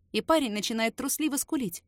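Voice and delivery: usual speaking voice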